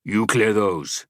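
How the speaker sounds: slow, loud curt command; brusque order. Acted. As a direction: bark the order slowly. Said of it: "rose from the table brusquely".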